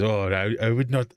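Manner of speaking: putting on hesitant, bad French; bad French accent. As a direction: imitate a terrible French accent. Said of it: "he puts on the worst French".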